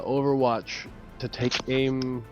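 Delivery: ordinary delivery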